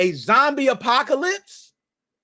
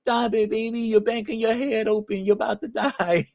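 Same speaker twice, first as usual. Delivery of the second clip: Kevin Hart voice. Retold or imitated. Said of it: "My Kevin Hart voice".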